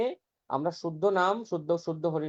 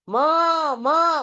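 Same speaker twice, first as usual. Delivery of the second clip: lightly imitated crying child calling for mother; a hint of a lost child's wail, raised pitch; mock child crying; 9 semitones higher, 4 dB louder, much slower than usual. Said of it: "বলে চিৎকার করে কান্না করে".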